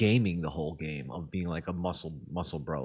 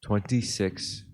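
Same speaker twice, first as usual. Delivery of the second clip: slow count; much slower than usual. Real, not acted. Slowly spelling out the timer.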